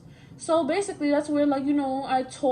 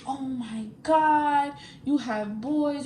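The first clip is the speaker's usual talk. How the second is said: slow, drawn-out mock accusation; mocking boyfriend; much slower than usual. Mocking her boyfriend's shock at boys on her Finsta, slowly. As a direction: drag out his shocked accusation. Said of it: "his issue with my Finsta".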